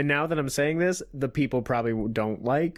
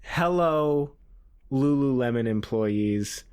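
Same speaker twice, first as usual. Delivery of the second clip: dictated line; 4 semitones lower, much slower than usual. Shown as a demonstration. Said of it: "I want you to say".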